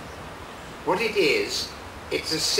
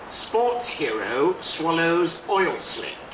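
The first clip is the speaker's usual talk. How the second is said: measured, deliberate poem reading with long pauses; unhurried poet's reading voice; poetry reading. Acted. Poet reads his poem aloud.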